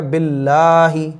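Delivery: बिल्लाही with a light l and long आ; thin laam. Shown as a demonstration. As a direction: keep the ll of बिल्लाही thin, stretch the middle. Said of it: "बिल्लाही में अल्लाह का लाम बारीक होगा". (बिल्लाही में लाम बारीक)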